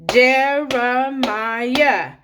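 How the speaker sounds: very slow, one beat per syllable; clapped out by syllable. Shown as a demonstration. Teacher clapping a name with the class, slow and syllable by syllable. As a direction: stretch each syllable out to clap along. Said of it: "Let's do it again".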